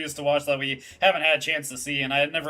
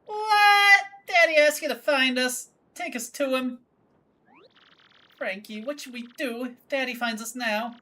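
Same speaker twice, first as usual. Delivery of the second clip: put-on a sassy girlfriend telling a creep off; Francesca voice; 9 semitones higher than usual. Daughter confronting the stranger, high and huffy.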